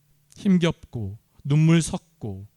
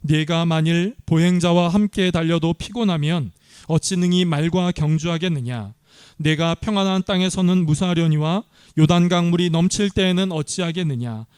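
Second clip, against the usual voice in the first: louder, measured Bible reading; scripture reading; 3 dB louder than usual. Acted. Pastor leading the congregation in reading scripture, measured. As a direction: read it aloud to the congregation.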